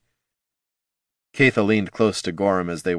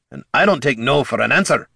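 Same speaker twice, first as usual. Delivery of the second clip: gruff bark; 5 semitones higher, 3 dB louder than usual. Acted. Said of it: "Gorm barked".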